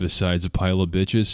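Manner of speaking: ordinary delivery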